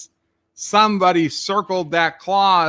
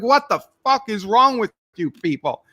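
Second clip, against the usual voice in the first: high, exasperated swearing; pitched-up exasperated outburst; retold angry outburst; 5 semitones higher than usual. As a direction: vent disbelief at them. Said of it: "I was so angry".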